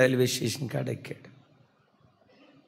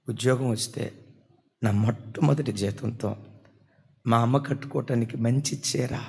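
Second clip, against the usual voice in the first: mild tearful retelling; 3 semitones lower than usual. Retold or imitated. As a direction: speak it low as a grieving son. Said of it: "చాలా డేలాగా ఏడుస్తున్నాడు".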